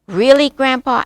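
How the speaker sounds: high, loud, wondering question; eager young cub. A narrator's reading. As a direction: ask it like an amazed little cub. Curious cub questions his grandpa.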